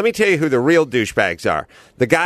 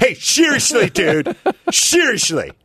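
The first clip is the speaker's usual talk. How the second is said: slow, high-pitched, dead-serious, earnest tone; 8 semitones higher than usual. Speaker imitates a guy who got serious, mock-serious imitation. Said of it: "when that guy got serious with the".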